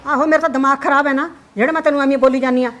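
loud, fast sarcasm; sarcastic retort. Acted. Mother answering her daughter with loud, fast sarcasm. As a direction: spit back the sarcasm quickly.

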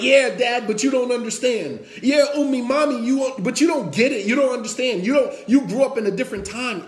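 mock teenage protest; protesting teenager. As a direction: play a teenager pushing back at parents. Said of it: "when they go through their hardships".

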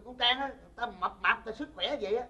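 a chuckle through the words; amused praise; laughing while talking. Real, not acted. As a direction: laugh as you describe her. Son laughs praising Trang.

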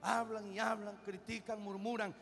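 quiet, earnest pulpit plea; hushed pleading sermon. Acted. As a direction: drop it down and plead with them. Pleads softly against murmuring.

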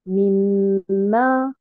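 mimma said slowly with the stressed syllable stretched out; teacher models mimma carefully; correct mimma. Shown as a demonstration. Teacher shows students how to say mimma. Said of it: "et non pas".

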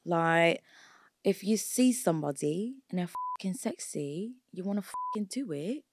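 put-on answering in a London accent. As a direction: slip into a cheeky London accent. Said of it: "that London accent is really good".

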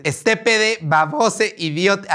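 insults with every ending swapped to -e, mockingly; mock inclusive language. Vlogger parodying inclusive language while insulting commenters. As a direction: bend the words into a gender-neutral -e parody. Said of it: "Voy a hablar en, en lenguaje inclusive".

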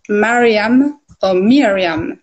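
Mariam then Miriam, slowly contrasting first vowels; Jewish name forms. Shown as a demonstration. Guest giving the forms for the Jewish people, careful pronunciation. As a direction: sound out Mariam, then Miriam with an "ee" start, drawn out. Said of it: "or for the Jewish people".

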